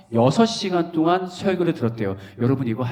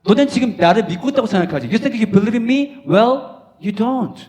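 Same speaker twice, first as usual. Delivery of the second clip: Jesus rebuking; 7 semitones higher, 4 dB louder than usual. Acted. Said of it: "오늘날 말로 옮겨볼게".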